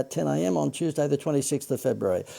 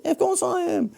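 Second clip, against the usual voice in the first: "course" pitched even higher, swooping and falling; Seinfeld inflection. Acted. Host repeating the line, hamming up Seinfeld's swooping "course". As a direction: lean into the sitcom comic's sing-song. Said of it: "I did the inflection like Seinfeld then".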